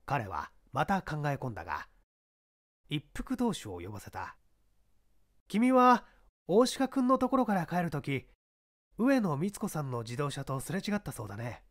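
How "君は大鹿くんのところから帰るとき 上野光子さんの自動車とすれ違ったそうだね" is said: a hint of a sly detective probing; probing inspector. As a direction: press the witness lightly with a higher voice. Inspector questions suspect.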